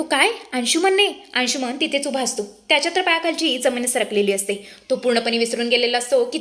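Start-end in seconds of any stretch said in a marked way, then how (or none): 0.0-1.1 high startled shout of disbelief; mild narrated shout of disbelief; shocked shout. A narrator's reading. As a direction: yell the name in shock, pitched way up. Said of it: "समर आता जोरातच ओरडतो".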